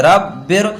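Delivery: रब्बिर ending in a light "bir"; thin R. Shown as a demonstration. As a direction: end रब्बिर on a thin R after a clear i. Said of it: "बारीक पढ़ते हैं". (रब्बिर, आख़िरी रा बारीक)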